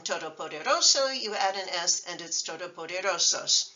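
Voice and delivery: todopoderoso and todopoderosos both stressed on RO; unshifted stress. Shown as a demonstration. Teacher showing singular and plural, same stress. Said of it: "the stress doesn't shift".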